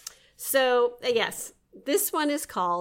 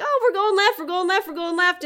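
playful excitement; 10 semitones higher, 4 dB louder than usual. Retold or imitated. Voicing her mind in play.

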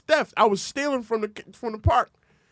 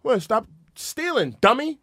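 mom scolding; 12 semitones higher, 4 dB louder, slower than usual. Acted. Mom scolding son after the smack.

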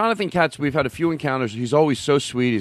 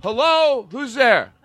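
suspicious guard; 7 semitones higher, slower than usual. Pretend. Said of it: "you're at the front door".

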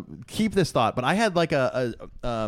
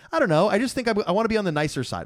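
mock earnest; 10 semitones higher, faster than usual. Quoting own debate stance.

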